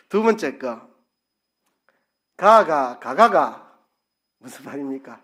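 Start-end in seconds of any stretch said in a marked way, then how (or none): 2.4-3.8 louder Gyeongsang intonation "가가, 가가". Shown as a demonstration. Preacher demonstrating dialect, a loud Gyeongsang "가가". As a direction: sing the "가가" tones the Gyeongsang way. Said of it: "제가 해볼게요".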